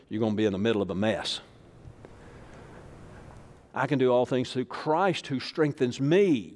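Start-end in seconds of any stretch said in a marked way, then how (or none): 3.7-6.5 proclaimed verse. Real, not acted. Preacher proclaims verse again.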